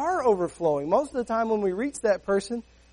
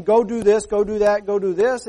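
louder preaching; 6 dB louder than usual. Real, not acted. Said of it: "preacher listing demands".

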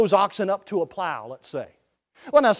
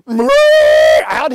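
slow, loud, drawn-out shout, higher; 11 dB louder than usual. Retold or imitated. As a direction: stretch it into a big yell. Zapping pig off the truck.

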